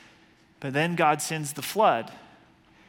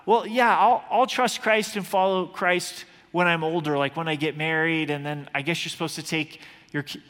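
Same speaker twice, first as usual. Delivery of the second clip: put-on young self brushing off faith. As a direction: shrug it off like a teen putting faith off. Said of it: "I often thought".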